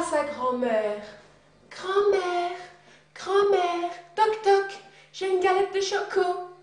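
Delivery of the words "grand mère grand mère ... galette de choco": put-on little girl voice. Child character calls grandmother.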